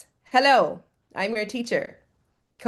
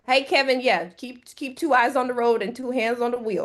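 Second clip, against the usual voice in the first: normal talking voice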